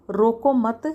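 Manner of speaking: रोको मत run together, then a break; pause after मत. Shown as a demonstration. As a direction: keep रोको मत as one phrase, pause after मत. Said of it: "उसको रोको मत जाने दो". (रोको मत को साथ बोलें, मत के बाद विराम)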